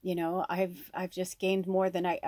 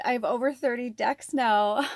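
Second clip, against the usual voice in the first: excited thought; 4 semitones higher, 5 dB louder than usual. Retold or imitated. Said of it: "I thought".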